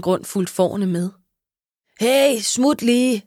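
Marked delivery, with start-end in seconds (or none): 2.0-3.2 shouting at sheep. Acted. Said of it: "skreg Rodrigo".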